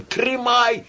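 high drawn-out wail; yelling. A narrator's reading. Shchur spinning before the tenor, yelling. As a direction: howl it out to stop him. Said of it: "перед ним с воплем".

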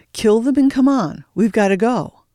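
urgent order. A narrator's reading. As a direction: rush him, sirens coming.

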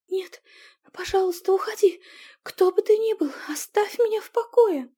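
high, loud frightened begging; high pleading that drops into a whisper; desperate plea. Acted. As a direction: beg the voice to leave, panicked. Heroine pleading with mental voice.

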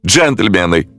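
high wailing call with a touch of tears; tearful cry. A narrator's reading. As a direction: cry out to them, near tears. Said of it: "со слезами в глазах завопил".

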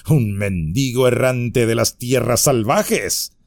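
scoffing laugh then mock disbelief; sarcastic bandit. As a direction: sneer at the news. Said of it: "sonrió con sarcasmo".

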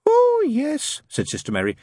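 very high nun voice; over-reassuring nun. A narrator's reading. Nun assures the father.

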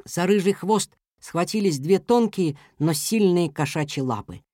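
plain reading voice

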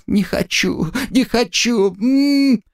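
high cries of no cut off by a muffled scream; panicked refusal into a gagged scream. Acted. Katya resisting the soldier's gag, screaming high. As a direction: fight the gag until it silences you.

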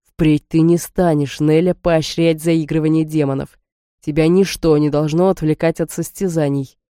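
slow, low sinister hiss; mustache twirling villain. Acted. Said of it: "жутковато зловеще прошипел".

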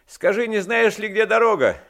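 loud, high calling out; shouted question. A narrator's reading. Coachman asks a stranger for the road, shouting. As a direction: call the question across a distance. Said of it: "закричал ему ямщик".

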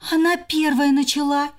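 high accusing sister; blaming squirrel. Acted. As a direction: push the blame.

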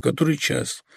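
soft, weak, complaining; a quiet, plaintive murmur; faint plaintive question. Acted. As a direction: ask it faintly from the sickbed. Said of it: "тихим, жалобным голосом".

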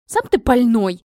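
loud offended comeback; indignant retort. Acted. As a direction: throw the insult straight back. Princess snaps back at insult.

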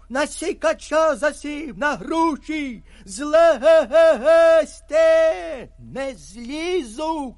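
loud, high, slowed panicked shouting. A narrator's reading. Frightened hunter warns friends from the tree, slow loud shout. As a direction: bellow the warning from the tree. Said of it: "кричу".

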